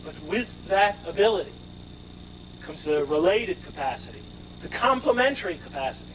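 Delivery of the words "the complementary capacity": complementary lifted higher and underlined; stress on complementary. Shown as a demonstration. Lecturer to class, underlining complementary. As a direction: lean on the word complementary. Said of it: "I underline the word complementary".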